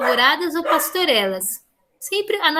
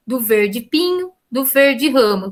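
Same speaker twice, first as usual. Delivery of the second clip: slow, drawing out "pinho" and "ramo"; slow, marked "verde pinho", "verde ramo"; stress on pinho and ramo; 2 semitones lower, slower than usual. Shown as a demonstration. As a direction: lean on the changing last word, "pinho" then "ramo". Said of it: "substitui o pinho por ramo".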